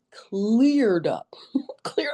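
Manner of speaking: "cleared up" whispered in amazement. Shown as a demonstration. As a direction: whisper "cleared up" like a delighted secret. Repeats "cleared up", then whispers it.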